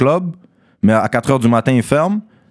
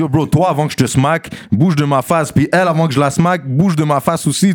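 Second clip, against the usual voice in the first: mild retold threat; 5 semitones higher than usual. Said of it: "J'ai dit".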